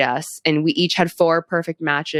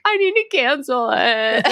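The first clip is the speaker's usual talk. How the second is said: laughing panic; 10 semitones higher than usual. Retold or imitated. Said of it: "I'm like".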